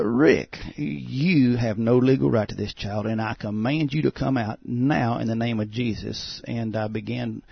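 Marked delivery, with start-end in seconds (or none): 0.0-6.4 retold exorcist's order, louder at first; mildly forceful commanding voice; firm command. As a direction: firmly order a spirit out, leaning on key words. Retold command to cast out spirit.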